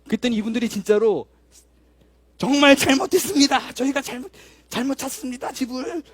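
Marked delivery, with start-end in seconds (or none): 2.4-6.0 higher and louder, called out to the neighbours; shouted apology. Retold or imitated. Two women shouting their apology to the whole building, loud and high. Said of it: "뭐 이러고 크게".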